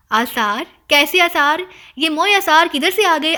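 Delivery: puzzled, startled questioning; a touch of alarmed astonishment; startled surprise. Acted. Mother startled by her son's warning, surprised. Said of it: "چونک کر حیرت بھرے لہجے میں".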